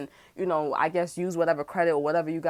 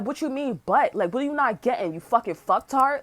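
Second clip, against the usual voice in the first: angry retort; 4 semitones higher than usual. Retold or imitated. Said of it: "I'm like".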